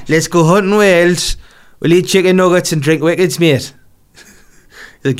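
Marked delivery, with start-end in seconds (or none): 0.1-3.7 Gazza impression. Gazza voiced in a story.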